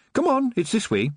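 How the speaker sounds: put-on high, arch old shopkeeper; theatrical witch shopkeeper. A narrator's reading. Missus Proust voiced.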